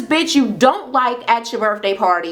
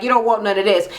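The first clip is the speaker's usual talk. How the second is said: matter-of-fact retold dare; understated acted threat; 2 semitones lower, faster than usual. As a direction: imitate a cool warning to a rival. First side of retold challenge.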